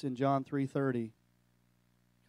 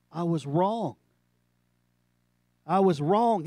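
rising, louder anguished confession; tearful confession; 2 semitones higher, 6 dB louder, slower than usual. Retold or imitated. Weeping pastor confessing to Josh, loud and anguished.

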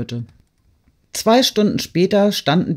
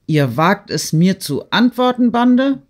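rising to a high, loud enraged shout; furious outburst; 6 semitones higher, 6 dB louder than usual. A narrator's reading. Rostow yells at the peasants who dare answer back, furious. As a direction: explode at the insolence of the mob. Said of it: "rief Rostow".

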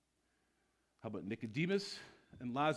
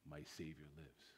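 hushed awe; 6 semitones lower, 11 dB quieter than usual. Retold or imitated. Mary's quiet announcement.

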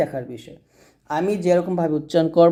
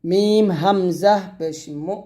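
slow sing-song letter-by-letter recital; spelling drill; slower than usual. Shown as a demonstration. Teacher spelling Arabic syllables aloud for students, sing-song drill. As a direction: chant each letter and vowel mark for the class.

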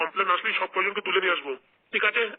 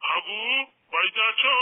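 calling out; 7 semitones higher, slower than usual. Acted. Officer calling from outside the house.

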